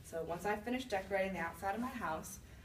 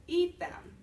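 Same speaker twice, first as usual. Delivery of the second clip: high, loud incredulous repeat; accused witch repeating the charge, outraged; outraged disbelief; 10 semitones higher, 7 dB louder than usual. Real, not acted. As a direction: spit it back in shock. Indignant echo of the accusation.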